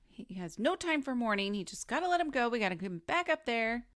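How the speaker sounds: lightly played commander; impatient commander. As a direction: bark it lightly like an impatient officer. Co-host plays the impatient commander.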